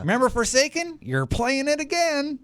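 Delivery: put-on a crusty old miner teasing; old-timer miner voice. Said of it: "I don't know why I'm doing a voice".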